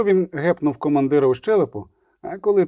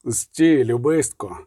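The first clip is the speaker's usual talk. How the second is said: mild shout; 3 semitones lower, much slower than usual. A narrator's reading. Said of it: "крикнув він".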